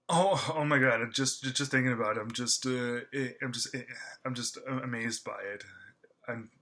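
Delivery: stammering over words in excitement; overwhelmed, stumbling and stammering. Real, not acted. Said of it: "you can tell by the way that I'm stammering right now".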